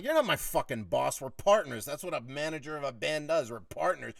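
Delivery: heated retelling of standing your ground; retold defiant snap. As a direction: snap back at the boss, re-enacting it. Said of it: "now I was saying it like this to him".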